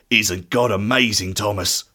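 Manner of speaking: lightly voiced disciple, low and hushed. A narrator's reading. Peter to grieving Thomas, low-voiced wonder.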